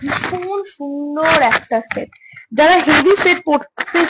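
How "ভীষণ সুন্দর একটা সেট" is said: slow, savoured praise; drawn-out admiring. Real, not acted. Presenting a heavy ruby pink set, slow admiring praise. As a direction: stretch it out, lovingly.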